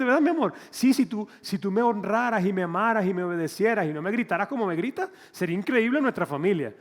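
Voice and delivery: mock wife. Voicing a couple arguing.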